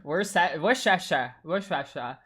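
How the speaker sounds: "Worcestershire" slurred into mushy sh syllables; "Worcestershire" stumbled over, like wor-sha-sha; pronounced as written. Shown as a demonstration. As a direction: garble "Worcestershire" while trying to read it as spelt. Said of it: "I'm gonna pronounce as written".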